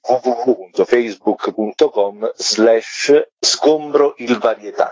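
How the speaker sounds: spelling out the web address slowly, letter by letter; careful dictation. Real, not acted. Guest dictating the podcast's web address to listeners, slow and careful. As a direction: dictate it so listeners can write it down.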